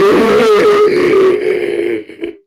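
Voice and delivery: very high squeal held long; hammed-up high whine; mock horrified noise. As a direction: imitate a kid frozen in dread. Imitating the shocked wide-mouthed face.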